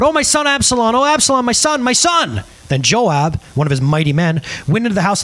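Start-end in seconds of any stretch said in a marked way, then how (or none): 0.0-2.4 a father's mild read-aloud grief; crying aloud. A narrator's reading. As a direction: cry out for the lost son, a touch of wailing. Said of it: "cried aloud".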